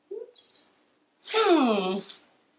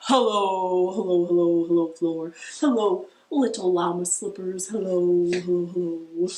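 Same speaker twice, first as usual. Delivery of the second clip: low hello; 4 semitones lower than usual. Shown as a demonstration. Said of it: "as low as we can".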